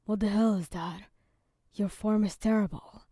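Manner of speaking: moderately loud angry outburst; mild yell. A narrator's reading. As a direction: raise the voice in a restrained yell.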